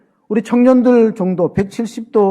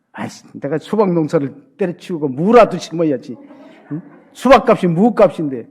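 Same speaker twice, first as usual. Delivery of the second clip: Chungcheong grumble. Retold or imitated. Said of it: "충청도 사람은 가만히 있어요".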